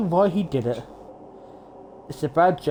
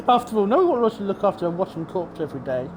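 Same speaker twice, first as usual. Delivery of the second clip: lightly raised, smug cartoon bear; mascot villain voice; 3 semitones higher than usual. Monokuma continues.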